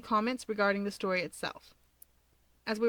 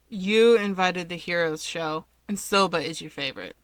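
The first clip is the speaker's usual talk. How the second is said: world-weary; 3 semitones lower, 5 dB louder than usual. Acted. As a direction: sigh it out like you've explained this a hundred times. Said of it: "World-weary, Dabi sighs".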